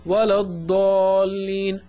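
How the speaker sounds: slow, stretched chant of the word; Quran recitation. Shown as a demonstration. Teacher chanting the verse word slowly for the class. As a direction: draw it out as in recitation.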